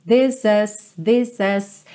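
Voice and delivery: "is" opened toward "as", linked to "this"; blend of has and is. Shown as a demonstration. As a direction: say "This is" as "this-es", between "has" and "is". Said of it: "um casamento do this has com o this is".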